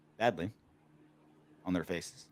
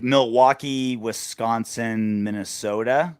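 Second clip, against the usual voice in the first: drawn-out upper-Midwest vowels; Fargo accent; 3 dB louder, slower than usual. Retold or imitated. Host lists second-worst accents, slow Midwestern accent. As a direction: stretch the O in a mock Minnesota accent. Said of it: "like you're from Fargo".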